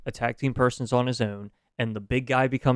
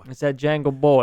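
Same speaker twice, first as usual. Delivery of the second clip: put-on loud jokey New Orleans accent; 3 semitones higher, 6 dB louder than usual. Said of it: "you're doing an accent".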